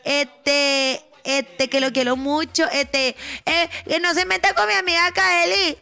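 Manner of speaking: lightly slurred mock drunk friend; drunk Lupita. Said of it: "Lupita siempre anda así".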